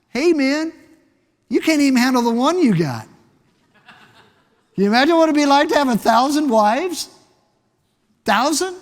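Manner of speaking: amused disbelief. Real, not acted. Joking amazement about wives.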